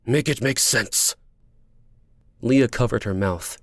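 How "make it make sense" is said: slow, insistent, raised pitch; angry, deliberate challenge; glaring demand. Acted. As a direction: demand an explanation, each word weighed. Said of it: "his dark eyes glaring".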